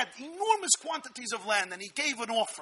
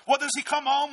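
normal talking voice

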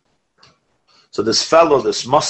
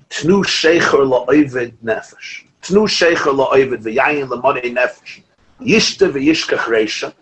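slow chanted Hebrew verse; verse recitation; slower than usual. Shown as a demonstration. Rabbi reciting Mishlei verse in slow chant. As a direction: intone the verse slowly, word by word.

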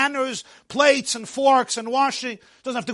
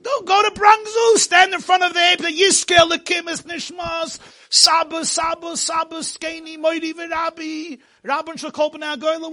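high, loud, chant-like recitation; mock exhortation; 5 semitones higher, 5 dB louder than usual. Speaker sends evolution believer to pray before the ape, mock exhortation. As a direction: start loud and high, then rattle off a mock memorial prayer.

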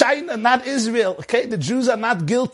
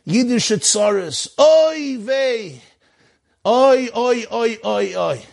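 mock groaning oy vey, higher; krechtsing sigh; 3 semitones higher, much slower than usual. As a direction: kvetch it like a weary old Jew. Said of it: "I know how to krechts and sigh and go".

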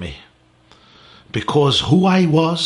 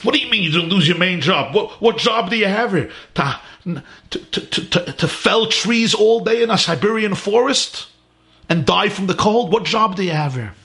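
higher, quick scornful questions; mocking challenge; 5 semitones higher than usual. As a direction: scoff at him as if he's mad. Fellow prisoner mocks Reb Mendel.

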